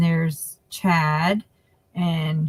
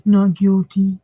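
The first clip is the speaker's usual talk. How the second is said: plea imitation; 5 dB louder, slower than usual.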